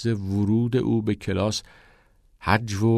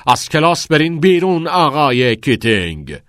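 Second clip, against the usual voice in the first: loud, raised-pitch angry order; furious shout; 6 semitones higher, 8 dB louder than usual. A narrator's reading. Nolan, blood boiling, orders Keating out, furious shout. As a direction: throw the teacher out of class. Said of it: "نولان خونش به جوش آمده بود. فریاد زد".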